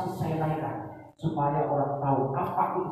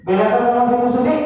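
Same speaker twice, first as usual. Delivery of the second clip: higher retake; 7 semitones higher, 9 dB louder, faster than usual. Shown as a demonstration. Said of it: "Mas, coba lagi".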